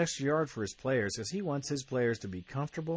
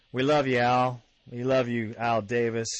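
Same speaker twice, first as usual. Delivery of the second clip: loud tribute; 7 dB louder than usual. Real, not acted. Host salutes the team owner.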